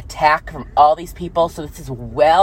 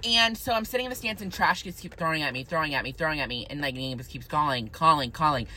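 quiet; 9 dB quieter than usual. Real, not acted. Quiet recalling of harassment.

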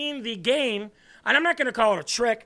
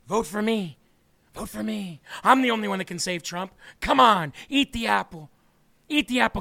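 tempting serpent voice; 3 semitones lower than usual. Retold or imitated. Host mocks the candidate as the garden snake, low hushed tempting voice. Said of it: "sound like the snake in the garden".

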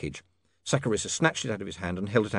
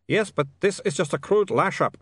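put-on nervous vampire, Eastern European accent; a jittery Uberwald vampire; 8 semitones higher, 4 dB louder than usual. A narrator's reading. Otto speaks.

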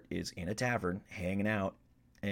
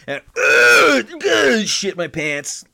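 laughing; 11 semitones higher, 9 dB louder, slower than usual. Real, not acted. Laughing at his nat one.

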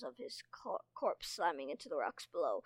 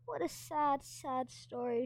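mocking; 7 semitones higher than usual. A narrator's reading. Mocking the prisoner.

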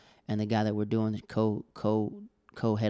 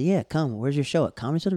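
higher and louder, eager invitation; excited; 4 semitones higher, 4 dB louder than usual. Retold or imitated. Inviting a friend's brother to the show, eager. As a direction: hype him up to come.

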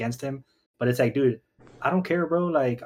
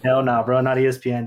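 loud; 6 dB louder than usual. Real, not acted. Joking outburst about ESPN.

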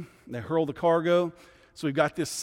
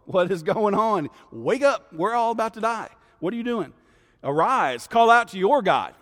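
higher, louder frantic shouting; panicked captain yelling; 6 semitones higher, 6 dB louder than usual. Retold or imitated. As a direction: shake a sleeping man awake in a storm.

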